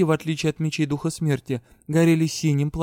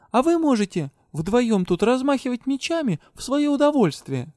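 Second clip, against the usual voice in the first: sarcastic; 9 semitones higher than usual. A narrator's reading. Heroine mocks the guards.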